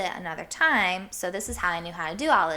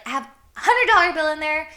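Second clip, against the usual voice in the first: retold tearful plea; 7 semitones higher, 7 dB louder, faster than usual. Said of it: "tears in my eyes".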